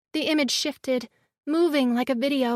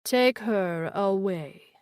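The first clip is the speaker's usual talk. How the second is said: slow eerie creature voice; 6 semitones lower, slower than usual. A narrator's reading. Glazer order, slow.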